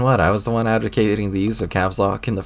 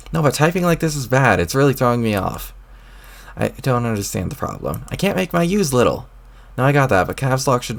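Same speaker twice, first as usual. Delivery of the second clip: put-on higher, peevish young troll snapping back; irritated troll boy; 3 semitones higher than usual. A troll boy talking back to the voice in his head, irritated.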